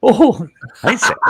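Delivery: high, loud cheerful hello; greeting Sam on the video call; bright greeting. Real, not acted. Greeting on camera.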